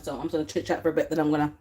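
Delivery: slurping juice between words. Real, not acted. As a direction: talk between sips. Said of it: "excuse my slurping".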